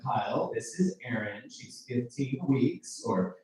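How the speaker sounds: put-on slow, proud intro of a baby or gun; lightly voiced friend, drawn out; hometown friend introducing. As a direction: show off the item like a proud parent.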